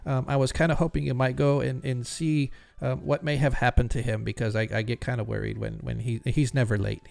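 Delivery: a hint of a stammering, anxious jeweler; nervous jeweler. Jeweler asks the adventurers for help, lightly voiced stammering. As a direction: stumble over the words, eager but timid.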